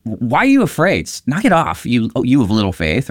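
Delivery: high, sharp scolding of frightened followers; stern rebuke. Shown as a demonstration. Jesus scolding his scared disciples, stern rebuke. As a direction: snap at them like a stern teacher. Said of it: "making a stern rebuke".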